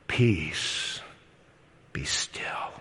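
whispered, low command to the storm; hushed command. Acted. Preacher voicing Jesus hushing the storm, whispered. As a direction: breathe it out like calming the sea.

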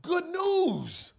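beg, then burst out with the news; pleading. Acted. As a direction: governor pleading with the prisoner. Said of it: "The governor pleads one more time".

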